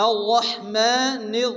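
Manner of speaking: আল্লাহমানির with ma held one count, slowly; stretched ma. Shown as a demonstration. Teacher showing the stretch in rahman. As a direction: draw out the ma of আল্লাহমানির. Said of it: "এক আলিফ পরিমাণ টান দিয়ে পড়তে হবে".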